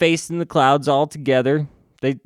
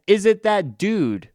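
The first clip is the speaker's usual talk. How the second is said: higher, slow dim-witted question; dopey hero voice; 7 semitones higher, slower than usual. Retold or imitated. Rage asking if it's that dude, slow dopey voice. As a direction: play Rage as a slow dummy. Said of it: "And Rage says".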